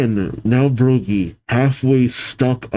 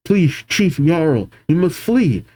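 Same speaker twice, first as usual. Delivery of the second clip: raised, anxious urging; urgent plea; 4 semitones higher than usual. Acted. Giants urging chief to flee, urgent raised voice. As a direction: plead with acted urgency, pitched up.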